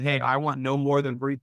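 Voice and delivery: ordinary talk, nothing marked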